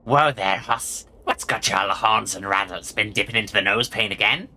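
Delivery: lightly voiced Wild West cowpoke; Gabby as cowboy. Gabby teases a horse-pal, light cowboy voice. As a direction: talk like an old Western sidekick. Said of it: "Gabby does not talk like that".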